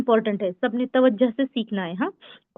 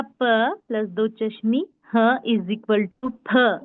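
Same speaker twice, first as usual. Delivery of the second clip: slow letter demo; much slower than usual. Shown as a demonstration. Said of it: "देखिए".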